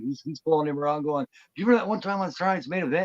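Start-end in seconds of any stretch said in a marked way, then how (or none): 1.5-3.0 high, fast fanboy gush; imitated starstruck fan. Wrestler marking out to his idol, mock gushing. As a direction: mimic an overeager fan rushing the question. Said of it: "completely marking out to him".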